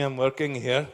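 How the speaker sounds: loud, emphatic play-acted protest; mock indignant analyst. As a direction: protest loudly as an interrupted worker. Acted quarrel of a busy analyst.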